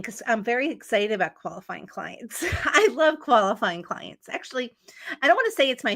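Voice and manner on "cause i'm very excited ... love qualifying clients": laughing. Real, not acted. Jokes after a yawn, laughing.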